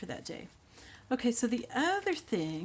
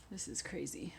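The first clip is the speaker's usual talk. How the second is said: whispering; 2 semitones lower, 8 dB quieter than usual. Real, not acted. Muttering at glue while working.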